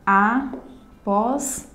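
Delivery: "Aposta" in three slow beats: a, pos, ta; syllable by syllable. Shown as a demonstration. Teacher showing three syllables to students, syllable by syllable. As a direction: pause after each syllable of "Aposta". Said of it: "uma palavra composta por três sílabas".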